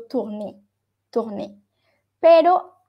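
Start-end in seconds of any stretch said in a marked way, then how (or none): 0.0-1.6 "tourné" ending on a clear "ay"; sounded final E. Shown as a demonstration. Teacher contrasts the EZ ending, final E sounded. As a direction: say "tourné" with the final E fully voiced. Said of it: "acompañada de Z ya sí está sonando".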